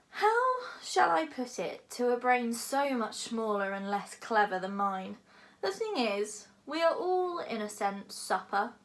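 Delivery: lightly voiced lofty dragon, lecturing; a big dragon musing grandly.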